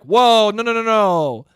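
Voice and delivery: loud tough-guy crowd; New York crowd denying they beat kids, loud; New Yorkers protesting. Retold or imitated. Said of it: "All of New York's like".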